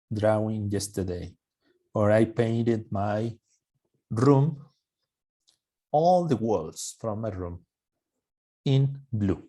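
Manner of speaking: slow, carefully spaced example sentence; slow model sentence. Shown as a demonstration. Teacher slowly reading an example sentence to the class. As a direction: stretch each word out for learners. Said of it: "la última pronunciación".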